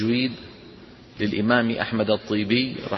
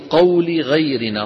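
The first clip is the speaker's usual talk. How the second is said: quoting the verse; 3 semitones higher, slower than usual. Shown as a demonstration. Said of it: "مثل لها الطيبي بقوله".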